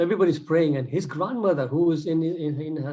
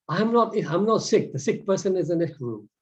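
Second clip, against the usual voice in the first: panicked denial; 4 semitones higher than usual. Retold or imitated. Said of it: "this lady is saying".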